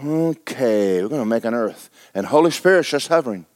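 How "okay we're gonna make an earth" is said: unhurried voice of God on his throne; God speaking. Acted. God on his throne telling the Spirit, calm and low. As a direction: lower and softer, a calm God announcing creation. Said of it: "God is sitting there on his throne and going".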